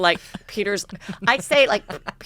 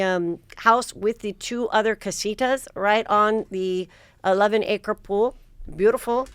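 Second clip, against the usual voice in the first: put-on Mexican accent; 2 semitones higher than usual. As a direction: imitate the Mexican salesman, not quite convincingly. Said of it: "I'm going to be doing his accent".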